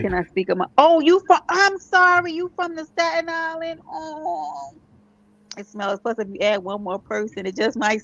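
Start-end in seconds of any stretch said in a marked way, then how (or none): 0.8-4.7 mock disbelief. Mock disbelief at co-host's borough.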